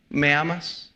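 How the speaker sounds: hushed question. Acted. God asks this morning, hushed.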